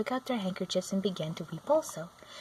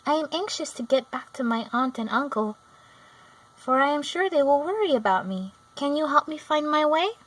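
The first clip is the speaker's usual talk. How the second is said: put-on higher, louder anxious girl; worried girl; 7 semitones higher, 4 dB louder than usual. A narrator's reading. Dorothy begs the Munchkins for help, anxious and high. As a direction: plead to go home.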